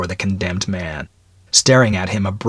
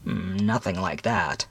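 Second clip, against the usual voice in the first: serious; 8 dB quieter than usual. Acted. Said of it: "shook his head seriously".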